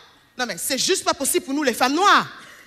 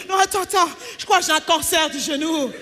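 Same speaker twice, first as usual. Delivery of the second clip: whiny man; 2 semitones higher than usual. Retold or imitated. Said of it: "Un petit bobo au genou".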